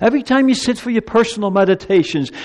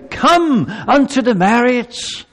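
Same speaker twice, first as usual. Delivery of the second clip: king's invitation; 4 semitones higher, slower than usual. Acted. King's call to the feast.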